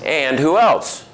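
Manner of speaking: retold trainer's leading question; prompting. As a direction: coax another answer out of them, slowly. Trainer prompting new staff for answers.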